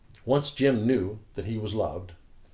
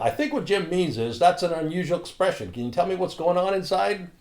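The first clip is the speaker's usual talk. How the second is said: raised higher, louder call across the room; yelling across room; 9 semitones higher, 6 dB louder than usual. Retold or imitated. Pastor translating Jim for the room, loud call. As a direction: call it out over the crowd. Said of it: "And I would yell".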